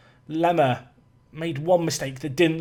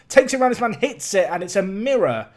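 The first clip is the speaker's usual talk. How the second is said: excited commentary; 3 semitones higher, 3 dB louder than usual. Real, not acted. Live commentary on attack.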